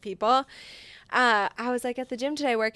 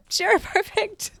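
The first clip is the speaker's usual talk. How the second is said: sarcastic drawl; 10 semitones higher, 3 dB louder, slower than usual. Retold or imitated. Mom's stunned sarcastic reply.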